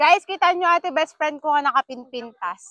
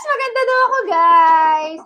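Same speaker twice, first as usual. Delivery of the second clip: excited boast; 6 dB louder than usual. Real, not acted. Boasting to viewers she was called pretty, excited. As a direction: crow it to the viewers.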